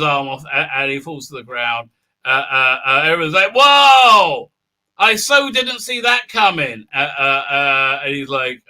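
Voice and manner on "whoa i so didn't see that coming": loud, high, drawn-out amazement; hammed-up crowd reaction; mock astonishment. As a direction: exclaim it slowly in fake shock.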